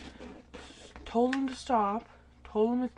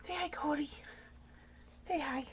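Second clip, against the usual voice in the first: whisper; 4 semitones higher, 8 dB quieter than usual. Real, not acted. Whispering to the sleepy dog.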